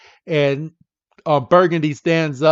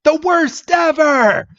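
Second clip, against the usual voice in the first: mock scathing verdict; 12 semitones higher, 4 dB louder, slower than usual. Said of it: "And she's like".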